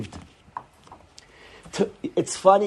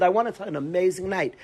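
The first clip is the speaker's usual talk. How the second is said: lightly voiced eager student; a touch of excitement; mild excitement. Student telling his friend, with mild excitement. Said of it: "a guy will say it with excitement".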